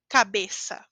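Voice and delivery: Cabeça with a clean S sound; plain S for ç. Shown as a demonstration. Teacher showing the ç in Cabeça.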